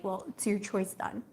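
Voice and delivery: quiet sulky mock jab; passive aggressive. Reader imitates the partner's quiet passive aggressive jab. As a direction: mutter the choice back at her. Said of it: "say something passive aggressive like".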